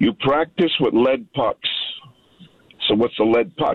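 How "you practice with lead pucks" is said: put-on French-accented voice. Recalling meeting him as a little kid, the speaker quotes Henri Richard's advice in his French accent. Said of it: "with a French accent".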